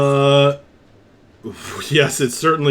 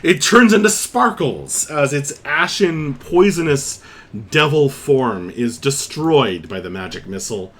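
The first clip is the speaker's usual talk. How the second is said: game master narration; 2 semitones higher than usual. Acted.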